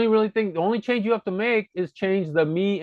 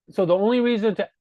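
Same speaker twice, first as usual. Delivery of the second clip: ordinary talk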